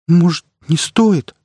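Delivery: a shy, shaky little question; timid trembling voice. A narrator's reading. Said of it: "робко осведомилась Симонова дрожащим голосом". (робко, дрожащим голосом)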